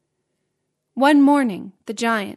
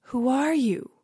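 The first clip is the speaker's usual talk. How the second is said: awed, wondering question; lightly voiced astonishment; 3 semitones higher than usual. A narrator's reading. Giant asking the mysterious boy, in wonder. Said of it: "the giant asked in wonder".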